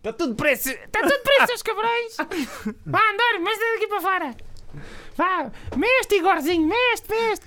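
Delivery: very high, loud ranting tyrant; shouting villain. Acted. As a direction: yell orders like a cartoon boss. Playing a villain character.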